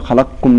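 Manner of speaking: "خلقكم" said quickly with a single light kaf; wrong undoubled kaf. Shown as a demonstration. Teacher showing students the wrong reading. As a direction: say "خلقكم" without doubling the kaf. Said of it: "لا نقول".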